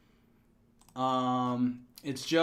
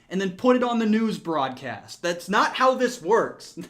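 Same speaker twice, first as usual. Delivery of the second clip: mock indignation; 7 semitones higher, 5 dB louder than usual. Indignant protest at being tricked.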